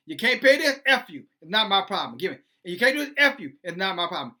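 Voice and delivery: hammed-up loan shark brushing them off; mock mobster. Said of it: "like the movie Goodfellas".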